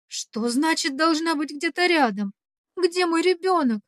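put-on mother screaming into the phone for her child; frantic cry. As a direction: panic climbing to a shout. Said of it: "кричу не своим голосом".

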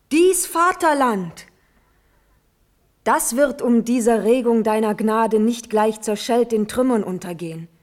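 impassioned pleading to the uncle; passionate plea. Acted. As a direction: fight for his life with every word. Natalie passionately pleads with the Elector.

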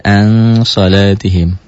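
ANG held long and slow before SALATIHIM; veiled N. Shown as a demonstration. Teacher reciting the ikhfa example for pupils, veiled N. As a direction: draw out the blurred nasal of ANG, then glide into SALATIHIM. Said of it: "n-nya tetap ada".

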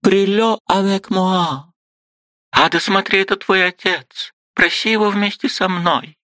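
высокий медленный ласковый французский; покажи девочке отца; мать показывает дочь. A narrator's reading. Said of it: "проговорила Варвара Павловна". (высоко и медленно, по-французски)

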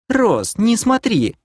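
high, drawn-out scolding cry; growled order. Acted. Kira stops Ros from looking, growled order. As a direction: snap a mildly growled warning. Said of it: "рыкнула Кира".

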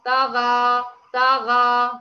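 طغى said with the jaws too far apart; طغى with the mouth wide open, wrong; wrong open-jaw demo. Shown as a demonstration. Teacher showing the open-jaw error. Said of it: "تقولي طغى".

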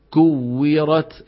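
"كورت" with a faint puff on the k; weak breath. Shown as a demonstration. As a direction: stretch "كورت" slowly, k barely aspirated. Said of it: "همس ضعيف".

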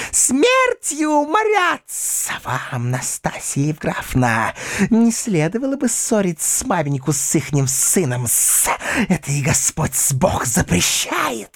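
a high, fawning, spiteful voice; spiteful companion. A narrator's reading. Companion reproaching the governess, spiteful and shrill. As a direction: simper with spite.

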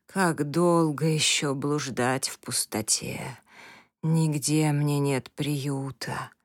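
slow hopeless whisper; despairing weary whisper. Acted. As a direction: breathe it out in utter exhaustion. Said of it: "безысходное отчаяние и смертельная усталость".

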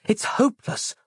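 high-pitched hopeless inner voice; despairing thought. A narrator's reading. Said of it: "thought Roz".

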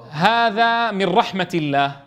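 slow, drawn-out reading of هذا من رحمة الله with each word spelled out; slow demo reading. Shown as a demonstration. Teacher slowly reads a Quran phrase to students, drawn out. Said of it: "طيب".

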